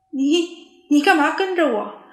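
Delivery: panicked question. A narrator's reading. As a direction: blurt it out in alarm. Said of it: "聪聪惊慌地问". (惊慌地问)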